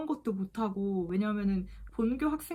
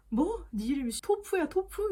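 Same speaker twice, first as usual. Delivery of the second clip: high, incredulous mock questioning; playful mock disbelief, pitched up; imitated teasing; 7 semitones higher than usual. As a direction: tease someone over a misheard name. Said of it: "저를 토푸라고 놀리는 거예요".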